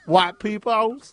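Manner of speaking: drawn-out caricature Black accent; mock Black accent. Shown as a demonstration. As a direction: coach the put-on Black accent slowly. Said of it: "Just say".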